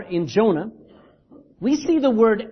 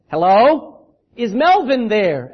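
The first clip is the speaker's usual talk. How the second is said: louder, insistent hello on the second try; louder second call; 5 dB louder, slower than usual. Retold or imitated. Father calling back louder to annoy the man. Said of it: "asked the father again".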